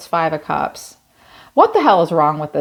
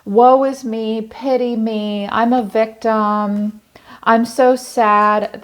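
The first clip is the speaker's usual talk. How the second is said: whiny victim voice, pitched up, drawn-out sad; mock self-pity; 4 semitones higher, slower than usual. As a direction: ham up the poor-me act. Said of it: "They also have a victim mentality".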